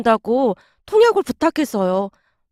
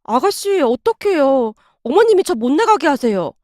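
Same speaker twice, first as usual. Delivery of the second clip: urgent voice. Retold or imitated. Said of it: "다급한 목소리로 말을 했어요".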